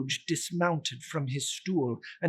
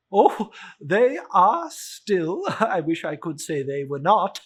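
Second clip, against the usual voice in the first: portly gentleman; 2 semitones higher, 7 dB louder than usual. Acted. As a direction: play the cheerful charity collector, bowing. Gentleman voiced in story.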